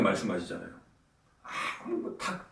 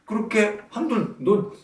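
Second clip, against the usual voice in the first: louder, mocking sarcasm, a sharp needle of irony; sarcastic jab; 4 semitones higher, 8 dB louder than usual. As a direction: ram it home with biting scorn, getting louder in the middle. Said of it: "이런 분위기예요". (비꼬듯 비아냥대며, 중간에 목소리를 높여)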